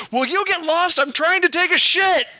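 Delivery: high-pitched screamed punchline; screaming. A narrator's reading. Wolf to Little Red while trying to poop, screaming. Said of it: "the wolf jumps up and screams".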